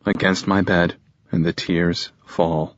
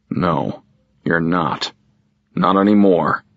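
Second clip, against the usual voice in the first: stern. Acted. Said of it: "he asserts sternly".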